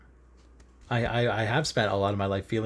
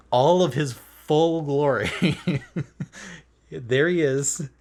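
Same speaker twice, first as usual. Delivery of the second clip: mock grand proclamation; 5 semitones higher, 5 dB louder, slower than usual. Grandly announcing his true self.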